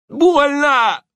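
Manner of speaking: high loud thug yelp of pain; cry of pain. Acted. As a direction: scream it as the arm twists. Вывернутая рука, крик боли. (крик от боли)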